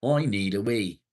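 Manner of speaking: loud, desperate whine; urgent loud complaint. Real, not acted. Streamer needing the toilet, loud urgent complaint. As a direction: act bursting for the toilet. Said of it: "I'm bursting for the toilet".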